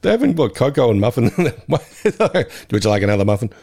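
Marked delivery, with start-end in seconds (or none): 2.7-3.5 a hint of a flat Ned impression; lightly voiced Ned; bad Ned voice. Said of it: "I did his bad Ned voice".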